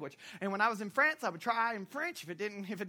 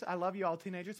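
ordinary talk

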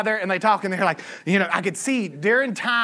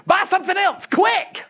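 high-pitched urgent order, hammed up; mock urgency; 9 semitones higher than usual. Cashier to customer whose total was six sixty-six, mock urgency. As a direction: imitate someone urgently warning a customer. Cashier urges him away from the number.

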